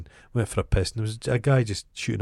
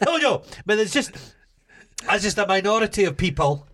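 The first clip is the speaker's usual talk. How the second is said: much higher, hammed-up old lady voice; posh American old lady; 11 semitones higher than usual. Mocking the visitor's defence of militias, high put-on posh American voice. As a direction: imitate her protesting in a high American-tinged voice. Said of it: "had this kind of posh American".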